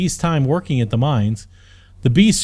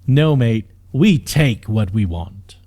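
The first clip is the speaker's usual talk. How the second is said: low menace; 3 semitones lower, 3 dB louder than usual. Acted. Captain menaces prisoner up close.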